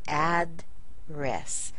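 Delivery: "address" divided as ad, then ress; split after D. Shown as a demonstration. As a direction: keep the D with the first syllable of "address". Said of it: "You might even say".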